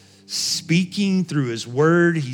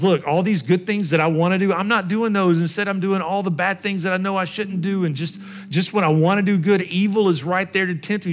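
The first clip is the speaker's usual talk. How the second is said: higher, pressing, mildly agitated confession; wrestling with himself; 5 semitones higher than usual. Acted. Paul confessing he does what he shouldn't, lightly acted struggle. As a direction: argue it out with a touch of frustration. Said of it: "Paul is wrestling with this thought".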